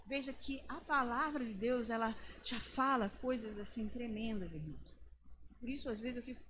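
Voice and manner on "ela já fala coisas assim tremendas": ordinary talk, nothing marked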